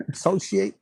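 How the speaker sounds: Associate? repeated through a small laugh. Real, not acted. Reader amused at her own word Associate? while laughing. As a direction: chuckle while saying Associate?. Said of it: "what do they call it".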